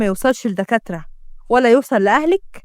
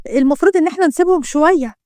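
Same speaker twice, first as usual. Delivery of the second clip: mildly tense explanation; a touch of unease while covering up; nervous. Acted. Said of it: "ردت روح بتوتر".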